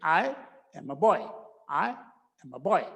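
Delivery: put-on "am" reduced to a quick schwa-like m in "I am a boy"; weak form am. Shown as a demonstration. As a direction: glide over "am", barely voiced. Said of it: "ऐसे".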